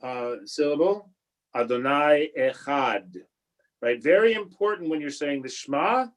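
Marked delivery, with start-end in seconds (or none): 1.6-3.1 Adonai Echad, slowly, with a clear D at the end of Echad; slow model of Adonai Echad ending on a crisp D; careful final D. Shown as a demonstration. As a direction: make the D of Echad heard. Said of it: "make sure that you have a D".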